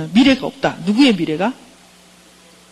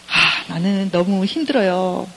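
slow, sighing client voice; acted weariness, drawn out; worn-out client; slower than usual. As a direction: play a weary client confiding in a counselor. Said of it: "그럼 왔어요".

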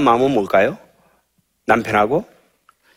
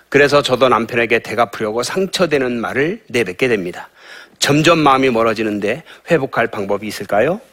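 reading a question. Shown as a demonstration. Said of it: "질문이 있네요".

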